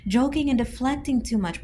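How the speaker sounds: high-pitched mock concern; high incredulous voice. Real, not acted. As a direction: ask it squeaky and incredulous.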